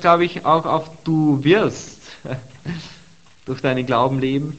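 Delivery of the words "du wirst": "du wirst" with wirst drawn out and pushed higher; slow, emphatic "du WIRST"; stress on wirst. Shown as a demonstration. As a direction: lean long and hard on WIRST, louder. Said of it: "Und die Betonung ist".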